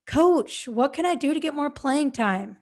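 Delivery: complaining. Shown as a demonstration. Player complaining to the coach about playing time, whiny. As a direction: gripe at the coach like you've been wronged. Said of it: "Are you sounding complaining?".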